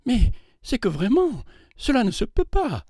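startled and flustered refusal; alarmed. A narrator's reading. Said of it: "dit-elle d'une voix effarée".

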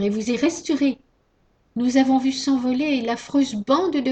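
indignant scolding. Acted. Pandora scolds the box creature.

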